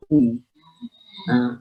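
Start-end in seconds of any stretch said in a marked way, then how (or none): 0.1-0.4 higher, rounded "U"; short demo of a round "U"; rounded dammah. Shown as a demonstration. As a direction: round the lips fully on "U". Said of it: "pengucapan duma harus memang bulat".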